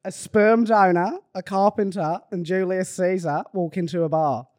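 put-on Australian accent. Telling co-hosts a dad joke, Australian accent. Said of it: "I'll do Australian".

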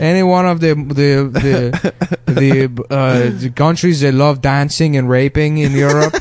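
hammed-up southern European accent, stumbling over "the"; mock Spanish accent. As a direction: grope for words in a put-on Spanish accent. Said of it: "a Spanish guy".

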